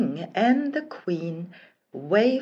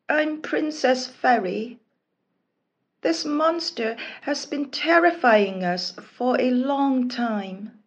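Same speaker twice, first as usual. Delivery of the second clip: explaining princess; 4 semitones higher than usual. Acted. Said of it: "the girl explained".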